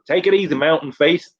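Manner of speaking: a lightly voiced spaced-out buddy; stoned Dave's farewell. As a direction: repeat the farewell, lightly and high. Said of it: "he just goes".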